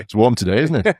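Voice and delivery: light imitation of Welsh accent; friendly Welsh greeting, lightly done. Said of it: "it was in a thick Welsh accent".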